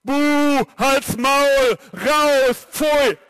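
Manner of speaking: loud jeering boos; sneering panto villain. Shown as a demonstration. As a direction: jeer at him like a crowd. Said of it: "Achim fängt an zu schreien und ihr macht alle Buh".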